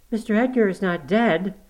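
high-pitched, horrified question; gasped in shock. A narrator's reading. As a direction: gasp out your dread at the news. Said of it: "I gasped".

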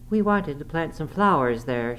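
put-on young woman's high-pitched protest; crying out. A narrator's reading. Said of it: "she cried".

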